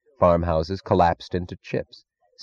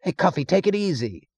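restrained yell; 11 semitones higher than usual. A narrator's reading. Man at the back to Cuffy, a held-back yell. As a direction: call out high from a distance. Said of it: "yelled some figure in the back".

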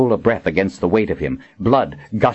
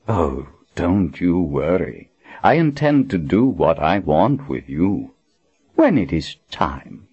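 slow wicked menace. Acted. Villain's wicked smile.

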